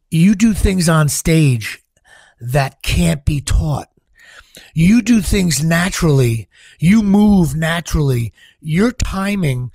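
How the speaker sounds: slow, weighty, emphatic retold praise; earnest director's praise. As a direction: lean on each phrase, slowly and firmly. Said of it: "looks me dead in the eye".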